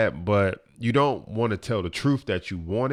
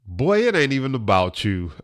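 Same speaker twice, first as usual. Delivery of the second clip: louder retold put-down; blunt scolding; 3 semitones higher, 6 dB louder than usual. Cousin answering his rant with a reality check, blunt scolding. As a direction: cut him off like a no-nonsense cousin. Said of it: "she just laid into me".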